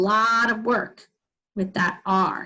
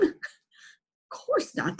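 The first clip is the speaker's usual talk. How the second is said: mock dismissive; 6 semitones higher, 7 dB quieter, much slower than usual. Shown as a demonstration. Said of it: "teacher answers own question".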